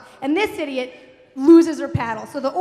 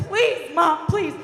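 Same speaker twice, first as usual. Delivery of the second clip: loud, higher exasperated begging; pleading; 4 semitones higher, 4 dB louder, much slower than usual. Retold or imitated. Daughter to immovable mom, loud pleading. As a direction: act out begging a stubborn parent. Teller begs mother to move.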